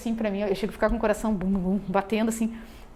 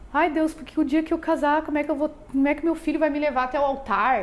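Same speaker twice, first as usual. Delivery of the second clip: higher-pitched retold plea to God; questioning God; 4 semitones higher than usual. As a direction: lightly imitate a questioning prayer. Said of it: "eu questionava muito Deus".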